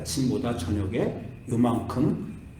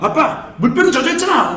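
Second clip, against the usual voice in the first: laughing mock whine; 11 semitones higher, 8 dB louder than usual. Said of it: "애가".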